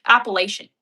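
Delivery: Appalachian said firmly in an American accent. Shown as a demonstration. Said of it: "have to say it in American".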